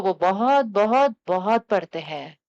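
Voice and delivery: loud repeated बहुत; emphatic insistence. Shown as a demonstration. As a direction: insist proudly, building. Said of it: "बोलो अच्छे से".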